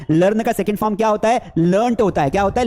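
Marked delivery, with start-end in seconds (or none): 1.6-2.0 लर्नट as one syllable ending in a clear t; proper pronunciation. Shown as a demonstration. Teacher models past form, लर्नट said LURNT. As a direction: land the final t of लर्नट. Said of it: "हमें pronunciation properly करना है".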